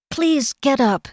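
high-pitched plea; pleading. A narrator's reading. Kel begs the kneeling servant to rise, pleading. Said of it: "Kel pleaded".

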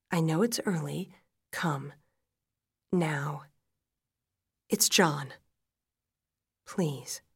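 contained, halting phrases; outwardly calm. A narrator's reading. Widow telling Jay to come, controlled calm. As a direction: keep hysteria at bay, speak evenly. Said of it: "now I am calm".

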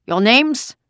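loud, high rising demand; harsh German-accented question; barked. A narrator's reading. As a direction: bark it like an interrogating officer. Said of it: "the officer barked".

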